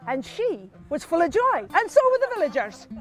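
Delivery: rising, animated glee; mock joy. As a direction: lift it brightly into rejoicing. Husband contrasts the others' joy.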